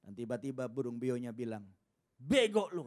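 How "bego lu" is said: lightly voiced parrot. Parrot insults owner.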